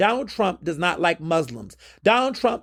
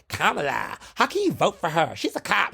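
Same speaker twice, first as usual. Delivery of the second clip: mocking whiny critic; 2 semitones lower than usual. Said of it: "y'all say it just like that".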